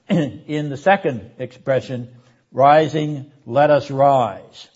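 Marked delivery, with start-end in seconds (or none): 2.5-4.7 "let us rise" drawn out slowly with weight; slow emphatic quote. Shown as a demonstration. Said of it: "You can hear the alliteration".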